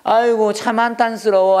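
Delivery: acted weary grumble about one's life; a touch of self-pitying lament, lightly hammed-up; mild lament. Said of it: "할 때 쓰는 거야".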